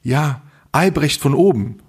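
slow, lightly voiced woman neighbour; a hint of a woman calling through the door; imitated woman's voice. Neighbour from upstairs answers through the door, slow imitated woman's voice. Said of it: "höre ich so eine Frauenstimme".

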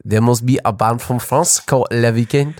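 mock French accent; hammy attempt at a French accent. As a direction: put on a bad French accent. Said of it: "your French accent is even worse".

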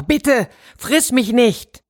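höher, langsam und lauter rufend; etwas lauter gerufen. A narrator's reading. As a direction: ruft die Bitte eindringlicher, gedehnt. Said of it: "rief der Mann etwas lauter". (dem Löwen etwas lauter, höher und gedehnt zugerufen)

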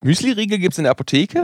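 high, incredulous question; can't believe it; surprised. Real, not acted. Disbelief at granola bars.

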